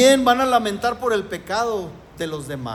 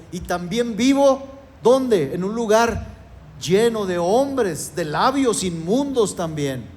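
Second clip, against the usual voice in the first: lament; 2 semitones higher than usual. Retold or imitated. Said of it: "levantó otro ay de dolor".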